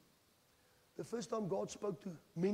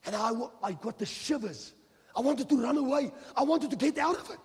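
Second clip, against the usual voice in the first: raised, higher-pitched preaching voice; impassioned preaching; 5 semitones higher, 8 dB louder than usual. Acted. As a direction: build urgently into the need to escape. Preacher retells fleeing in rising force.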